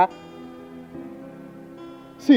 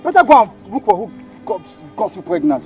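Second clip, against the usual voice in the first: loud, higher threatening yell; angry threats; 3 semitones higher, 11 dB louder than usual. Acted. Man threatening his pregnant girlfriend loudly. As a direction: bark threats at her.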